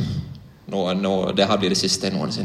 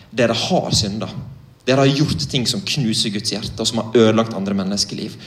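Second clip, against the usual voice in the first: blunt and direct. Retold or imitated. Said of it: "Og jeg var ganske direkte med dem".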